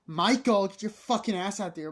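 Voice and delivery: high, loud call through a door; mock parental yell. Mother knocking on son's bathroom door, mock angry yell. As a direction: imitate a mother bellowing for her kid.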